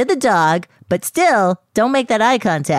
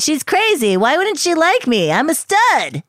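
higher, indignant boasting; offended stud; 8 semitones higher than usual. Pretend. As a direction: play the wounded ego. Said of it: "And scene".

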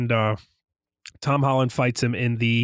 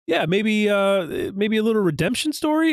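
musing friend; 7 semitones higher than usual. Retold or imitated. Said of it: "Richard had mentioned".

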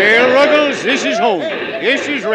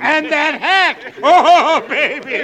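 laughing; 6 semitones higher, 4 dB louder, slower than usual. Acted. Father laughs at the suit.

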